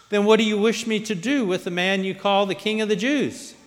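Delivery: high, loud public appeal; addressing a crowd. A narrator's reading. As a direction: put the question out over a crowd. Pilate addresses the stirred-up crowd.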